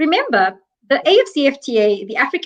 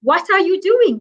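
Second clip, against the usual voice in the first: demanding farmers; 6 semitones higher than usual. Retold or imitated. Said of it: "come together and say".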